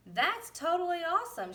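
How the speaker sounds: high, loud excited shout. A narrator's reading. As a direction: shout it out like a thrilled boy. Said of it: "shouted Edison".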